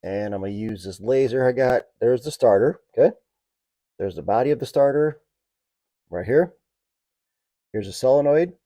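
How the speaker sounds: talking while lying under a car. Real, not acted. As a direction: speak from flat on your back under a car. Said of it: "so I'm under the car".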